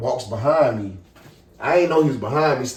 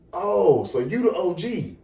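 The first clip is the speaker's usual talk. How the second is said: higher-pitched imitation of a taunting cop; mocking challenge; 4 semitones higher, slower than usual. Policeman confronting a young man, imitated taunt. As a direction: needle him as a retold cop.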